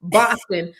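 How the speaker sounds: Boston said the California way, Californian accent, flat "ah" and a clear n. Shown as a demonstration. Host admits her California accent can't say it, Californian accent. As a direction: Californian accent: Boston with an open "Bahs" and a crisp "ton". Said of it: "with my California accent".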